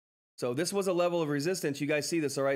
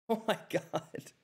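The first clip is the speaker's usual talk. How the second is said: breathless disbelief; 4 semitones higher, 4 dB quieter, much slower than usual. Real, not acted. Donation repeated again.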